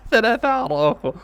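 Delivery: loud, high, thrilled exclamation; delighted amazement. Real, not acted. Fan marvelling at Araujo, high thrilled exclamation. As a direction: cry out in delight.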